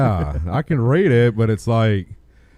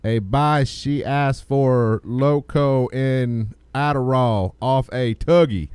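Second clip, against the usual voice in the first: character voice. Pretend. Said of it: "I'm gonna have to get a character for this one".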